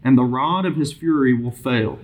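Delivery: measured, lifted reading voice; scripture reading. Real, not acted. Bible study leader reading proverbs aloud to the group, measured scripture reading. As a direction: read the verse out clearly to the group.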